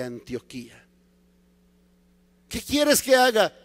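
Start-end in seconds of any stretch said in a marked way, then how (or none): 2.5-3.5 a hint of a pleading Paul; lightly acted urgent question; Paul's insistent question. Paul asks the Lord what to do, mildly urgent.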